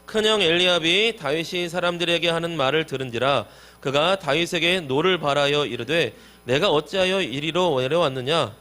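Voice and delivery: projected read-aloud for the congregation; loud scripture reading. Real, not acted. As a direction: read the passage out loud, steadily. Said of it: "큰 소리로 시작".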